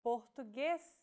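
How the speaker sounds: Português with a closed stressed E, por-tu-GUÊS; closed vowel demo. Shown as a demonstration. Teacher models Português for learners. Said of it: "closed pronunciation".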